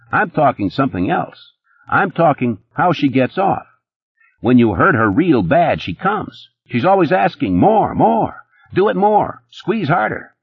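high, fast-talking nervous hustler; Eddie's voice. A narrator's reading. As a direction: pitch it up as jittery Eddie.

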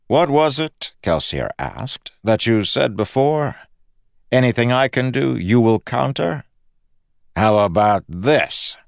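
a triumphant jab at his foe; taunting. Acted. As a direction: toss his words back at him. Kelsier taunts the god.

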